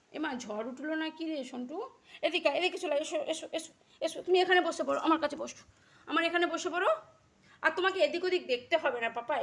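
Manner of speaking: loud, high coaxing; coaxing call. Real, not acted. Calling Kutus to come sit by her in the wind, loud high coaxing. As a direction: urge him over to sit beside you.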